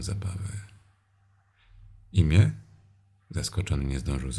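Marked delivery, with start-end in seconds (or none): 2.1-2.5 sharp demanding question rising high; stern question. Acted. Domina pyta związanego o imię, ostro i głośno. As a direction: demand his name with a raised question. Interrogating bound man.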